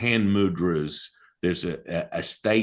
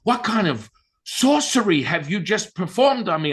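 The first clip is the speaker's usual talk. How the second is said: high-pitched imitation of a shocked outcry; retold scream; 9 semitones higher, 4 dB louder than usual. Friend on the phone after the healing, mock screaming. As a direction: cry it out high, mimicking her alarm. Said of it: "She starts screaming through the phone".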